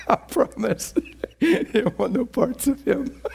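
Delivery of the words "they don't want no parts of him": high, laughing whisper; playful whisper. Real, not acted. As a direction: whisper it like a secret. Playful aside about hell.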